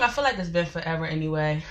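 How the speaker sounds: talking while out of breath; breathless from rushing in. Real, not acted. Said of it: "I'm kinda out of breath".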